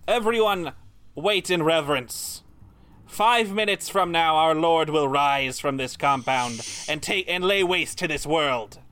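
slow, grave proclamation to the crowd; solemn proclamation. Acted. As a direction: announce the Lord's coming, slow and solemn. Cultist addressing the crowd.

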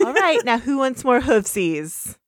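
bright pop star pony voice; rally the foals cheerfully; talking pony. Acted. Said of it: "adorable little pony voices".

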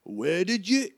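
thrilled fan-like outburst; Hagrid, excited. Acted. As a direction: gush with delight in a put-on accent. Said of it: "like, giggle".

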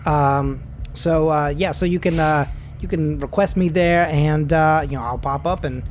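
lightly voiced talkative rideshare driver; chatty driver Terry. Driver Terry pitching his referral code to Garth, lightly voiced and chatty. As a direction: ramble helpfully with lots of stops and starts.

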